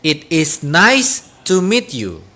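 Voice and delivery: each word of the phrase said slowly and clearly for learners; slow teacher demonstration; slow model repeat. Shown as a demonstration. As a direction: repeat it slowly so students can copy. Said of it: "Once again".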